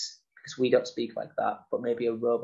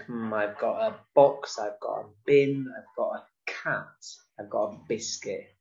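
slow, stressed "box", "bin", "cat", "biscuit"; expressive listing. Shown as a demonstration. Teacher to children, stressing each object word. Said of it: "help with your expression".

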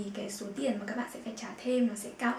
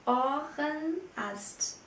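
Ohrenarzt drawn out very slowly, syllable by syllable; slow model word; 3 semitones higher, much slower than usual. Shown as a demonstration. Teacher slowly models Ohrenarzt for students, very slow. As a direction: stretch Ohrenarzt out for learners. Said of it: "Der Ohrenarzt".

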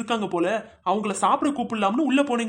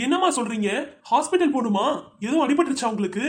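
alarmed. Acted. To the mother after hearing of her fall, anxious and alarmed. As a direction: rush to check she's not hurt. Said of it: "பதறாதம்மா".

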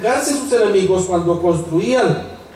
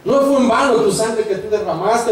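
higher-pitched fervent preaching; prédica exaltada; 5 semitones higher than usual. Real, not acted. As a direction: proclaim the cross with rising fervor. Predica exaltado sobre la cruz. (predicación ferviente, en tono alto)

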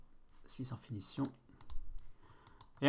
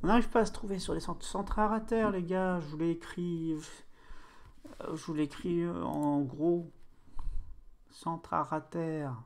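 coach; 4 semitones higher than usual. Pretend. Coach criant des consignes à l'équipe.

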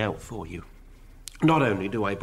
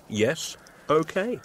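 drawn-out breezy yes, okay; 느긋하고 자신만만하게; confident manager voice; 4 semitones higher, slower than usual. Acted. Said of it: "the way a manager says these things".

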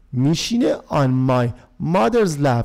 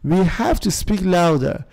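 slow model reading; much slower than usual. Shown as a demonstration. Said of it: "دوتاش در گذشته ساده".

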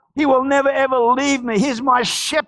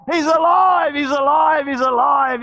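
shouted praise; 3 semitones higher than usual. Real, not acted. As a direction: proclaim it to the congregation.

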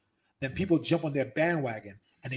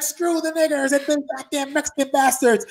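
mock racist ranter; 10 semitones higher, 7 dB louder than usual. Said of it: "He's like".

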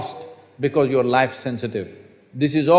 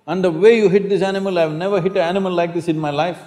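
furious scolding; 4 semitones higher than usual. Retold or imitated. Shankaran Pillai yells at the seller, mock furious. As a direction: scold the seller fast and hot. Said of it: "Shankaran Pillai got furious".

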